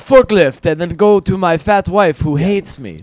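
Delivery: lightly voiced caricatured Asian accent; a hint of a broad Asian accent. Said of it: "attempt at a white person's accent".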